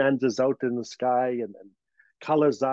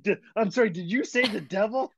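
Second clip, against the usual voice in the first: incredulous driver; 6 semitones higher than usual. Retold or imitated. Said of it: "the bus driver was like".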